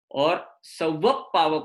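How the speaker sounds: सव पाव very slowly with no extra प; very slow model pronunciation. Shown as a demonstration. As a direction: say सव पाव slowly, keeping the words apart. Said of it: "प को पर जोड़ देते हैं". (बहुत धीरे से सव पाव, बिना जोड़े)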